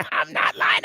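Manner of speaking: breathy whisper, words barely voiced; whispered insistence. Real, not acted. Repeats the claim under his breath.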